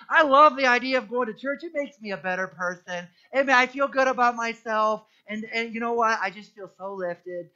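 a lightly put-on, self-satisfied fan of church; mock churchgoer voice. Preacher mocks churchgoers who are only fans, in a light put-on voice. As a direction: gush about how good church makes you feel. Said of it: "I don't know why I'm doing this voice".

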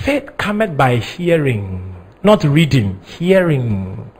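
slow, low and deliberate, drawing out "hearing"; stress on hearing. Real, not acted. Preacher teaching that faith comes by hearing, slow stress on "hearing". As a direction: set "hearing" against "reading" with measured weight. Drives home hearing against reading.

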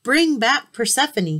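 loud, high royal command. Acted. Zeus orders Hermes to the underworld, loud and commanding. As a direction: order it like the king of gods. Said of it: "he commanded".

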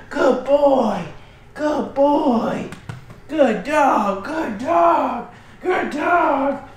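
lively, upbeat praise; excited praise. Real, not acted. Trainer praising the puppy's retrieve, lively and excited. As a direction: get excited for the dog. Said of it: "So you get excited".

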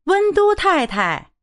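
called out. A narrator's reading. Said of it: "马先生进门便叫".

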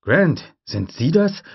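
radio voice asking. Acted.

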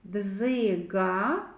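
"Дзига" with the з brought out; second sound picked out. Shown as a demonstration. Teacher showing children the second sound, з emphasized in "Дзига". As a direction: lean on the z in "Дзига". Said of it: "З твердий приголосний".

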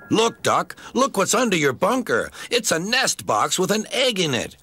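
teasing. A narrator's reading. Crew laughing, teasing Duck.

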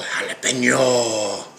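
Jalapeno said slow, hah-la-PEN-yo. Shown as a demonstration. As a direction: drawl Jalapeno with an h sound. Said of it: "cutting up the jalapeno".

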